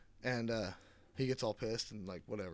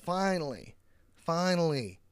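louder, higher, drawn-out relief; exasperated finally; 7 semitones higher, 8 dB louder, slower than usual. Real, not acted. Reviewer fed up with slow movie, loud exasperated relief. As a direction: at last, throw up your hands.

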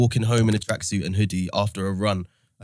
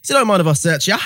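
lightly voiced cop, pitched up; policeman; 6 semitones higher, 4 dB louder than usual. A narrator's reading. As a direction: put on a questioning officer, a touch higher. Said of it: "And then the policeman goes".

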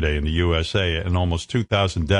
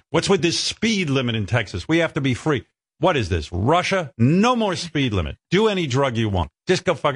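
mocking the governor; 6 semitones higher than usual. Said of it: "He goes".

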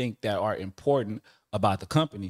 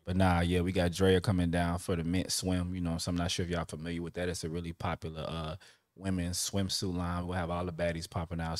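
a hint of a sexy purr, lower; 4 semitones lower than usual. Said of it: "This my, this my sexy voice".

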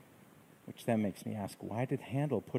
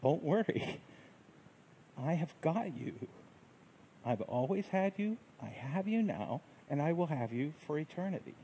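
a hint of a humble, higher voice of Jesus; 3 semitones higher than usual. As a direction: reassure gently like Christ speaking. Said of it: "A humble voice that says".

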